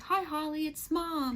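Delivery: high-pitched, lilting phone hello from Mom; mother greeting. Retold or imitated. Retells mother calling in dream.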